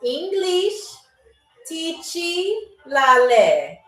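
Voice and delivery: very slow, long pauses between words; slow, deliberate phrase demonstration; really slow. Shown as a demonstration. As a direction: stretch each word out for learners. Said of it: "I'm gonna say it really slow".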